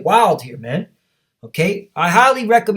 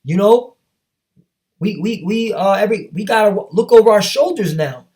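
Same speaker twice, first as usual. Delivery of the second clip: mock panicked yelling; 4 semitones higher than usual. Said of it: "they're gonna be yelling at their government".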